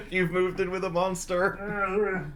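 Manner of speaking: slow, gleeful teasing. Acted. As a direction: relish the tease slowly. Teasing her wife.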